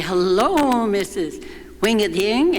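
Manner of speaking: answering Helen's silly greeting, lightly hammed-up hello. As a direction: answer with a light put-on grand-lady voice. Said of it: "greeted each other with these silly names".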